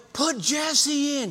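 acted, high, insistent, demanding woman's holler. Retelling what a lady at the games would yell, imitating a lady yelling. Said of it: "We had a lady who would yell".

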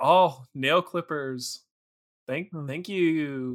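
mock feigned gratitude, fake happiness. Acting out a feigned thanks for a gift: mock feigned gratitude. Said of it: "trying to feign being impressed or happy".

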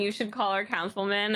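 plain

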